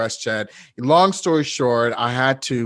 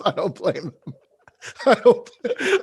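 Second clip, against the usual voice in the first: laughing through the words, pitched up; 7 semitones higher than usual. Real, not acted. Host joking listeners will leave, real helpless laughter. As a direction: barely get it out for laughing. Embarrassed host cracks up mid-talk.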